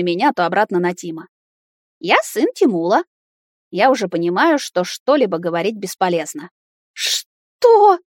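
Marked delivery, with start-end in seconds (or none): 2.0-3.0 put-on Тимула with an l for the r, childlike; a small boy saying Тимула, r turned to l; child lisp. Boy tells Nata whose son he is, lisping. Child lisps his father's name. 6.9-8.0 high, loud stunned Что?; baffled what. Acted. Nata stunned by the boy's words, shrill disbelief. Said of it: "заладила Ната".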